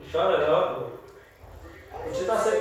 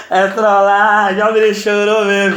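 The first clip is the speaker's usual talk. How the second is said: laughing reveal; 2 semitones lower, 3 dB louder than usual. Real, not acted. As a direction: crack up as you admit the prank.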